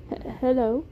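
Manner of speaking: put-on hesitant British-accented hello; Beam, British accent. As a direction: stammer a greeting in a soft British accent. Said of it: "It was a soft British accent".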